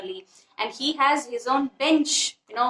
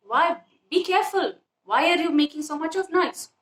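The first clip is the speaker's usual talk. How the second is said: indignant; 3 semitones higher than usual. Acted. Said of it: "So indignantly she's saying".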